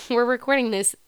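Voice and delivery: nose blocked after a breakup; congested, stuffy voice. Real, not acted. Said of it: "that's why I sound all stuffy".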